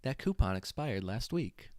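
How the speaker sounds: like reading from a script. Acted. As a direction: read it out like an ad. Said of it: "like you're reading a script".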